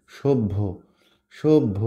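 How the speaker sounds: "সভ্য" said shob-bho, doubled consonant; b before bh. Shown as a demonstration. Teacher shows students the hidden b, "সভ্য" as shob-bho. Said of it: "ভটার আগে বটা নিয়ে চলে আসছি".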